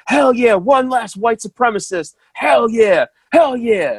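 high-pitched mock scream, little added volume; restrained imitation of a frenzied yell; retold screaming. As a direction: imitate a man hollering, drawn out and high. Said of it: "he's screaming at the top of his lungs".

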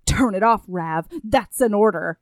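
low-voiced stern command; mock commander giving a firm order; demanding. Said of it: "the most demanding voice".

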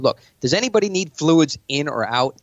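assured, casual take on the opener; confident meeting opener. Shown as a demonstration. To investors at his meeting, a relaxed, in-control opener. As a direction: take the room with an easy question. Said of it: "start it like this".

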